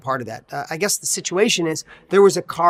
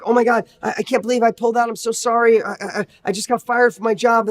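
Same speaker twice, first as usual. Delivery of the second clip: higher, flustered, stammering apology; nervous apology; 5 semitones higher than usual. Retold or imitated. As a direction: stumble over the words like a shaken driver. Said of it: "the person gets out all nervous".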